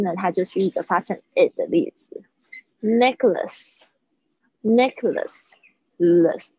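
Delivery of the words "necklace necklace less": "Necklace", slow, with a weak schwa in "less"; careful pronunciation demo. Shown as a demonstration. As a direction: model "Necklace" slowly, reducing the last vowel to uh. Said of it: "它好像是发呃的声音".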